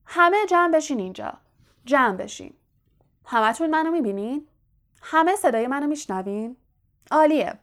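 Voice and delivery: rally the audience with eager projection; self-pleased host gathering everyone; calling a crowd together. Acted. Lockhart calls a crowd together.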